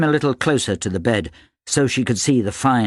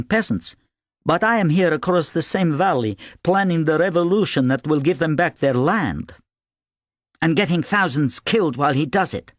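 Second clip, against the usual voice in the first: higher-pitched character making a case; Ivan's imagined argument; 8 semitones higher than usual. A narrator's reading. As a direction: argue it in a raised storybook character voice.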